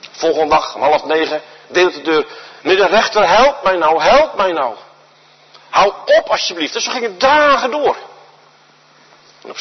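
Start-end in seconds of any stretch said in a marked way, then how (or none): 2.6-6.7 a widow begging the judge, voice raised a little; pleading widow. Acted. Widow begging the busy judge for justice, pleading. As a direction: plead with him, urgent and insistent.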